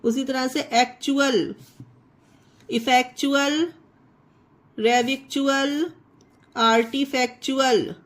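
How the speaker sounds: एक्चुअल, इफेक्चुअल, रेविक्चुअल, आर्टिफैक्चुअल each with "chual"; ch sound for T. Shown as a demonstration. Teacher listing examples, "chual" in आर्टिफैक्चुअल and the rest. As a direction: read the list ending each word in "chual", pausing between. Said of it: "सिर्फ टी को चा बना दिया".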